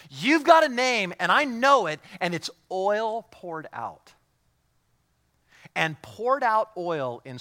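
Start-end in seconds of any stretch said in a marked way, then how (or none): 0.1-2.0 high, loud, slow praise of her man; admiring bride. Retold or imitated. The bride in the Song of Solomon praising her man, loud and high. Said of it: "she looks at her man and says". 2.2-4.1 slow, savoured line of praise; admiring bride. Retold or imitated. The bride naming her man's anointing, slow and savoured. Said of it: "she looks at her man and says".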